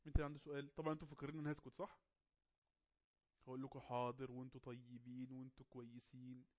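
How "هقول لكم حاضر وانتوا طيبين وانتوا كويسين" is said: slow, drawn-out monotone mockery; mock compliance. Teacher pretends to give in to silent students, mock compliance. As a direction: feign docile agreement, stretching each word.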